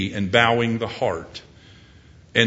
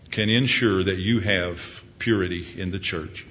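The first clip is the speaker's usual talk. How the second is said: closing prayer; 5 semitones lower than usual. Acted.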